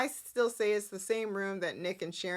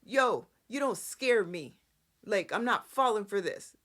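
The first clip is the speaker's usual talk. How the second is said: tough stance. Pretend. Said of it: "stand your ground and be like".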